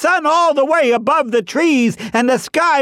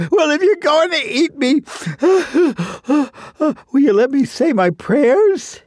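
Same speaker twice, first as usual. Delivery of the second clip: pitiful plea between sobs; tearful chipmunk. Acted. Chipmunk asks to say his prayers, tearful. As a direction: whimper out a last request. Chipmunk begs to pray before death.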